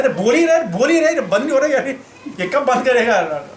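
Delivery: fed up with the lecturer who keeps on talking, grumbling in annoyance; exasperated grumbling. Retold or imitated. Impatient, annoyed muttering at a class that never ends. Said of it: "बड़ा गुस्सा आया".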